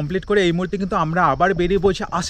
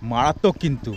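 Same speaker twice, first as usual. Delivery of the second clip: words ringing back off the hills; echo; 4 semitones lower than usual. Shown as a demonstration. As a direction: call it out and let it echo. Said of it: "তোমাদের একটা নমুনা দেখাচ্ছি".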